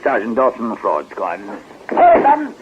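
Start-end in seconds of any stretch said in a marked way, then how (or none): 1.9-2.5 sudden call. Acted. Detective calls out to his men.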